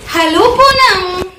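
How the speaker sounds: grandfather's greeting. Acted. Teacher reads grandfather greeting Poonam, lightly acted high greeting. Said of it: "grandfather says".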